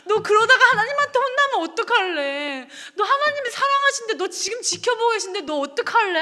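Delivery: imitating a weeping, urgent appeal; retold tearful plea. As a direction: plead with a friend as if crying together. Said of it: "둘이 앉아서 엉엉 울면서".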